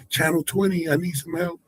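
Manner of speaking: high-pitched mock plea; mock radio call for help. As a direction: pitch it up, calling in for backup as a joke.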